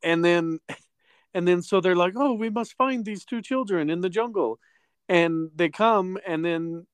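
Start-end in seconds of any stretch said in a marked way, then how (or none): 2.2-4.6 higher-pitched mock-dramatic resolve; hammed-up B-movie urgency; earnest movie hero. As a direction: put on a stagey, concerned voice. Acted movie characters, stilted earnest line.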